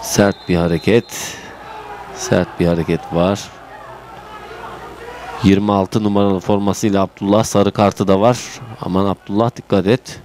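subdued. Real, not acted. Hard foul, subdued remark.

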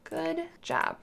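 loud, high excited praise; big happy "good job"; cheery praise. Pretend. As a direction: cheer like a proud parent. Praising toddler on potty.

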